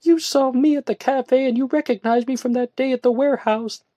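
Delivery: high, loud indignant retort. A narrator's reading. Woman snapping at her friend, indignant. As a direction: fire it back at him. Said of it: "she remarked".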